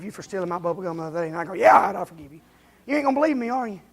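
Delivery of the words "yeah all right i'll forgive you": offhand, dismissive yeah; grudging shrug of a pardon; half-hearted forgiveness. Shown as a demonstration. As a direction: toss it off like you don't mean it. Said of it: "Not half-hearted either".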